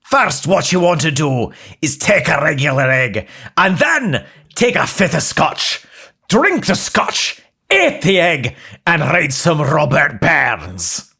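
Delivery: put-on Scottish accent.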